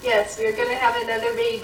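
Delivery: excited announcement. Real, not acted. Mom announcing pregnancy, child reacts.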